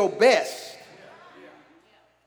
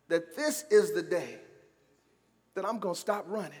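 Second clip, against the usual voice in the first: hushed, low declaration; quiet resolve; 5 semitones lower, 10 dB quieter than usual. Shown as a demonstration. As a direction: say it softly, with pauses. Preacher's quiet declaration, then repeated loud.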